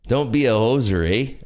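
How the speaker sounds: jokey put-on Canadian "eh"; bad Canadian accent. Streamer echoing a chatter's Canadian jibe, bad Canadian accent. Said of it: "has a Canadian accent".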